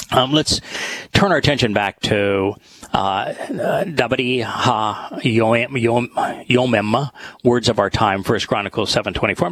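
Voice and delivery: slightly out of breath. Real, not acted. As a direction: speak a little winded. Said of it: "I sound if I'm a little, uh, out of breath".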